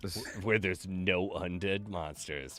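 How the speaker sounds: slow, dramatic trailer narration; horror trailer voice. Pretend. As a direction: announce it like a blockbuster trailer. Continues the trailer parody.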